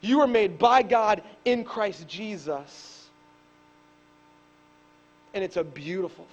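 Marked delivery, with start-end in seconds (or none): 0.0-3.1 slow, weighty; slow declaration. Acted. Pastor to the church, slow and emphatic. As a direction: lay each word down deliberately.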